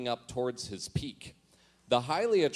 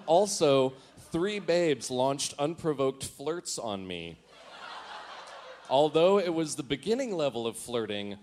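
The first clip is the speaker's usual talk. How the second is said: laughing while reading. Real, not acted. Reading old diary, cracking up.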